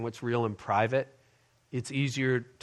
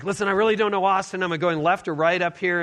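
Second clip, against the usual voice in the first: lightly agitated husband, pitched up; retold mild frustration; 5 semitones higher, 3 dB louder than usual. Husband asking wife for directions, mildly frustrated. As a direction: press for an answer with mild impatience. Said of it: "I'm getting frustrated".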